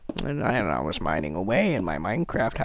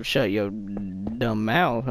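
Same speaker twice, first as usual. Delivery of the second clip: parrot voice; much slower than usual. Retold or imitated. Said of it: "and he was like".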